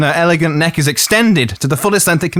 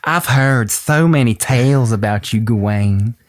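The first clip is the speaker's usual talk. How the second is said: slow, syrupy Southern drawl; Southern belle accent; slower than usual. Acted. To Gawain, the wife flirts in a Southern drawl. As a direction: lay on a Southern charm. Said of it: "if I had heard that voice".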